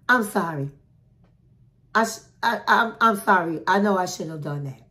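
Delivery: a flat, unconvincing apology; mumbled, grudging I'm sorry; half-hearted sorry. Retold or imitated. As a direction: say sorry without meaning it. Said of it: "should have really been acting like he was sorry".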